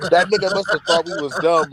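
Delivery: high and laughing through the words. Real, not acted. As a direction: talk while cracking up.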